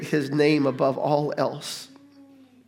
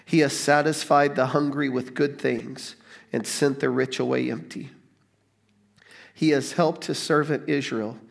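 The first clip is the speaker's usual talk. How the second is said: scripture reading. Acted. Pastor reading scripture to the church, measured. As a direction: read it like a gospel passage to the congregation.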